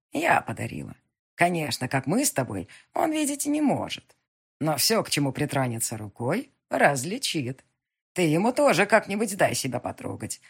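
put-on a wise old witch who sees all. Witch explains the blind man.

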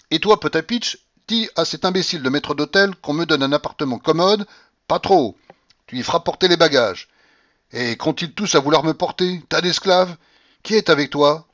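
put-on loud, high, imperious old lady; old grandmother shouting. A narrator's reading. Grandmother shouting at the stunned tutor, imperious and loud. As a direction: bark at him like a domineering grandmother.

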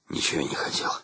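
low, muttered, almost voiceless grumble; grumbled mutter. A narrator's reading. Shcherbak grumbling back at the commander, low mutter. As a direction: mutter it sullenly under your breath. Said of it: "хмуро посмотрел ... и буркнул".

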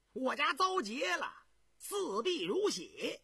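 sneering. Acted. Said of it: "胤娥冷笑着".

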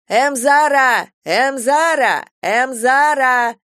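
long, high, loud drawn-out call. A narrator's reading. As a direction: call across the fence, stretching the name. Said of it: "звал кого-то парень через забор". (парень громко зовёт через забор, протяжно тянет имя)

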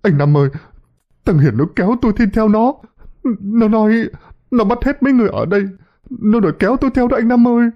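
high, hurried panicky wail; frightened high-pitched blubbering; tearful whimpering. A narrator's reading. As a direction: blurt it out on the verge of crying. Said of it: "vừa nói vừa mếu máo".

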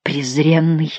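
hissed whisper of contempt. Acted. Duke whispers his contempt at the count, voiceless. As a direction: breathe the insult, voiceless and disgusted.

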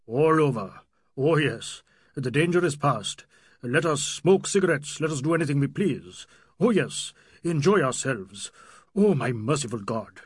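put-on agitated old man's character voice; shaken old Nawab. Old Nawab after the danger is past, shakily relieved.

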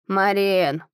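хрипло зовёт дочь; сиплый, со сна голос; хриплый голос. Acted. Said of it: "позвала она хриплым голосом". (хриплый оклик)

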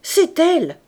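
loud, high triumphant cry; a husband finishing his secret out loud, loud and triumphant; said aloud. Acted. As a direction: ring it out in triumph. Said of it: "termina tout haut".

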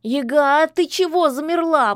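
high, loud howling cat. Acted. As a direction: yowl out in alarm. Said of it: "взвыл кот".

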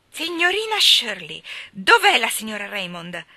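high, loud angry woman; human fury. A narrator's reading. Angry mother confronts Miss Shirley at the gate, furious. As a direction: demand it furiously, opening at a high pitch. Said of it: "una furia umana".

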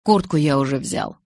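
low, steady assurance; reassuring Edward. A narrator's reading. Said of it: "заверил Эдвард".

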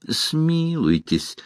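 pitiful high drawn-out cry for mercy; heart-rending plea. A narrator's reading. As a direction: beg for mercy, stretching the word. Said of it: "душераздирающе завопил Доплер".

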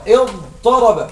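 اضطرب drawn out slowly, letter by letter; teacher stretching اضطرب to show its letters; slow syllable drill. Shown as a demonstration. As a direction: spell out اضطرب slowly for the class. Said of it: "تعرفوا معنى اضطرب؟".

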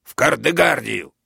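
pin him down with a shriek; accusing shout. A narrator's reading. Major accuses Rastorguev and sends him off, shouting high.

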